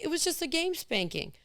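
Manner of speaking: a lightly voiced sheepish girl; imitating the girl. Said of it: "She's like".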